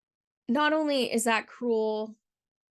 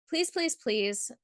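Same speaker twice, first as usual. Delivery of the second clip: earnest pleading; 3 semitones higher, slower than usual. Real, not acted. Urging abused viewers to seek help.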